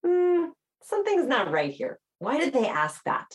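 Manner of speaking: suspicious inner voice. Retold or imitated. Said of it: "our brain hears a question inflection as".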